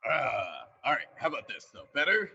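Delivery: heavy echo, as if in a cave; talking from inside a cave; echoey cave sound. Real, not acted. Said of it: "He's super echoey now".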